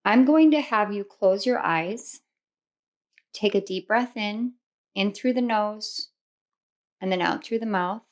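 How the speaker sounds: soft, unhurried meditation voice with long pauses; guided visualization. Acted. Tarot reader guiding listeners through a Victorian mansion, guided meditation. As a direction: gently lead them through the imagined scene.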